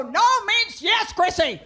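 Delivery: high, slow, loud with a laugh; playful mock menace; mock villain line. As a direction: ham up the predator in the game. Teacher voice in the game.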